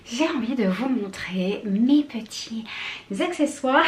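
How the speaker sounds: breathless, half-whispered; winded, barely voiced words; out of breath. Real, not acted. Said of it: "je suis essoufflée".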